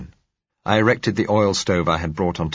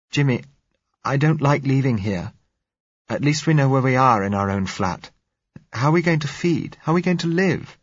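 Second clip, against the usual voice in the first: higher, louder, pleading; frightened plea; 8 semitones higher, 3 dB louder than usual. A narrator's reading. Blind girl pleading with Jimmy, frightened and high. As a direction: beg him not to leave, scared.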